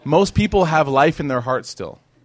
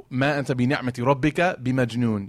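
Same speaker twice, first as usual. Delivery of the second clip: Quran recitation; much faster than usual. Acted.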